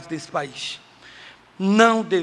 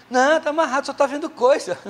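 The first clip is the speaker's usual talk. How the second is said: a higher, stubborn churchy denial; high mock denial; 7 semitones higher than usual. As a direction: her voice pitched up, dragging out Jesus. Woman denying problem to pastor.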